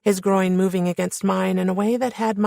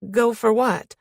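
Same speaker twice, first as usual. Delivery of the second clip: higher, thrown-off query; puzzled question; 5 semitones higher than usual. A narrator's reading. Woman thrown by man's dare, puzzled high question. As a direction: ask it pitched up, caught off guard.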